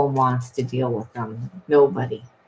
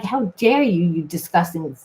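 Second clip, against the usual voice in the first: mock hateful rant; 2 semitones higher than usual. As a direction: spit it out like you hate them. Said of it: "really getting pissed off and hating this person".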